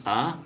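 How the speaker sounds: "ah." as a pure open ah; open ah vowel. Shown as a demonstration. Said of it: "You gotta have your tongue in the right place".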